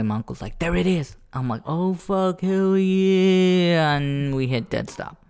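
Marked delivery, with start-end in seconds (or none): 0.6-1.2 calling from far away. Retold or imitated. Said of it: "Finally, from far away". 1.6-4.0 high, loud joyful outburst; relieved excitement. Retold or imitated. Finally spotting the gas station.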